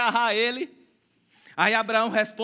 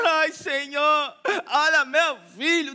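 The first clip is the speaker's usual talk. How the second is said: slow, pitiful mock plea with a laugh; mock whining; slower than usual. Preacher mocking a pitiful Abraham pleading to the Lord, whiny. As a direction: drag it out like a self-pitying victim.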